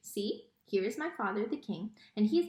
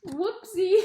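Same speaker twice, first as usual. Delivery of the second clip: tag; 8 semitones higher, 8 dB louder than usual. A narrator's reading. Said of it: "said Miggery Sao".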